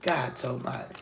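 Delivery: breathless whisper, pleading to God; whispered plea. Retold or imitated. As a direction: whisper it like a desperate prayer. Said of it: "you like".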